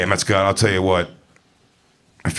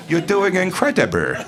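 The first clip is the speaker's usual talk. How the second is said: high-pitched imitated Asian accent; mock Asian accent; 8 semitones higher than usual. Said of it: "talking with a racist Asian accent".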